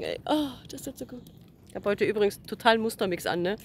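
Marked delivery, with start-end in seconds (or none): 0.2-1.2 sighing with relief, sun on back; blissful sigh. Real, not acted. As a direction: melt into a contented sigh.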